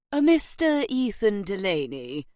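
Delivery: formal butler announcing a guest; butler's announcement. A narrator's reading. Butler presenting a visitor to the household, formal announcement. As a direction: announce the visitor with measured ceremony.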